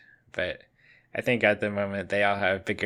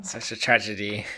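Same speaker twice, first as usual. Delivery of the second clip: smiling voice. Real, not acted. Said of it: "Why do you sound like you're smiling".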